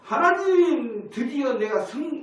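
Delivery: high, loud and drawn-out exclamation; triumphant cry to God. Acted. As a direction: call up to God in slow, swelling triumph. 하나님께 승리를 외치는 재연. (하나님께 높고 길게 외치는 감격)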